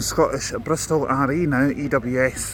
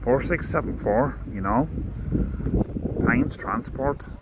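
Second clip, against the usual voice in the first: put-on Irish accent; 3 semitones lower, 3 dB quieter than usual. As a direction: read the bus details in a mild Irish accent. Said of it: "I'm gonna do the, the accent".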